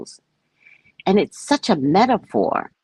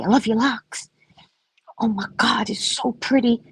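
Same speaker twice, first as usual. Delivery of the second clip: gushing compliment; 6 semitones higher, 3 dB quieter than usual. Retold or imitated. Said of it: "tell everybody".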